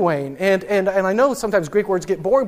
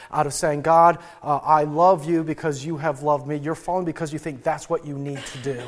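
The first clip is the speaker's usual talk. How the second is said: voice of God; 4 semitones lower than usual. Retold or imitated. God answering Tim's prayer, low and gentle. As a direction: let God speak low and patient. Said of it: "him finally saying is".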